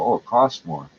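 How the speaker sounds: quoting the bar owners' whiny excuse; a lightly mocking "costs" stressed and falling. Mimicking bar owners excusing themselves, lightly mocking. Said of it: "Very simple".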